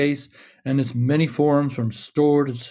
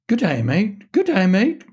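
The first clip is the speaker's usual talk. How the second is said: high, loud squawking parrot voice; 8 semitones higher, 4 dB louder than usual. A narrator's reading. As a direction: screech it like a parrot. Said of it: "came a shocking squawk".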